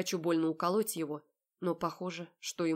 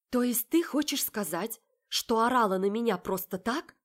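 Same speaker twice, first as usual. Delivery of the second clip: raised, accusing questions; angry confrontation; 4 semitones higher, 5 dB louder than usual. Acted. Heroine confronting her sister, loud and accusing. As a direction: demand an answer, voice raised.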